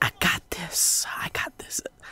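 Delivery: very hushed, slow, very soft whisper. Retelling a boast to the choir teacher: retelling a whisper. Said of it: "I whispered in her".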